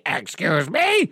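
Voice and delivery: high, slow mocking echo of excuse me; mocking parrot. Mocking the customer's excuse me, slow and high. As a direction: parrot her whiny excuse me back. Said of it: "you're like a parrot".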